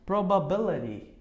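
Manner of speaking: PROBABILITY ending in "ri"; American flapped T. Shown as a demonstration. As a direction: tap the T of PROBABILITY. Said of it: "americana ri". ("Probability" com R brando no lugar do T)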